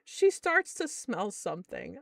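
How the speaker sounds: ordinary talk, nothing marked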